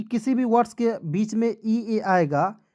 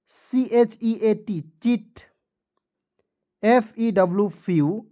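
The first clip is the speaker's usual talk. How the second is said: whispers the letters slowly; slow whispered spelling; slower than usual. Shown as a demonstration. Teacher reviewing words with students in a slow whisper. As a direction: hush it out letter by letter. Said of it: "teacher reviews words slowly".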